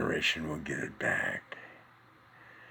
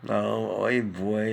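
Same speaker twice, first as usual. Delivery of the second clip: Jewish guy exclamation; 2 semitones higher, 6 dB louder, much slower than usual. Acted. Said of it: "he was the Jewish guy".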